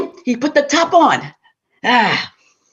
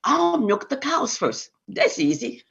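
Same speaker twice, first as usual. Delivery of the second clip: husband boasting; 2 semitones higher, 6 dB quieter than usual. Acted. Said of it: "there was the man".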